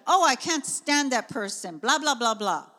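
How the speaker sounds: retold grumble rattling off into blahs; divisive griping. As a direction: imitate your own fed-up ranting. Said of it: "speaking like that".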